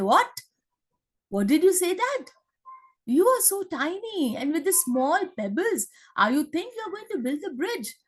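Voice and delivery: high, scoffing big monkey; mocking monkey. Monkey scoffing at the squirrel's pebbles, high mocking voice. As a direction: sneer at the tiny squirrel's plan. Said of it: "the monkey says".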